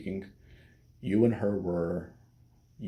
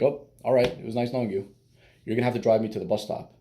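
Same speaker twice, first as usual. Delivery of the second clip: joking comeback; 3 semitones higher, 4 dB louder, faster than usual. Acted. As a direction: tease back with a mock farewell. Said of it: "just joke around".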